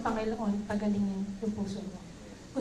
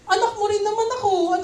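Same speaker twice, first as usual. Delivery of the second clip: plain; 9 semitones higher, 6 dB louder than usual. Acted. Voicing Hagar's hurt complaint.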